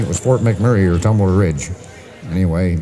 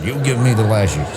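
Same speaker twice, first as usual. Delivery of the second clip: put-on mild broken-English Russian accent; lightly voiced tough Russian; Russian sailor; 3 semitones higher than usual. Russian sailor asking the captain for lashes, light Russian accent. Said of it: "And you, Russian".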